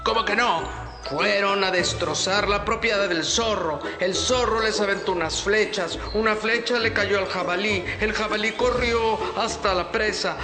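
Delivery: angry bear voice; a gruff bear laying blame; bear folk. Acted. Bear confronts birds.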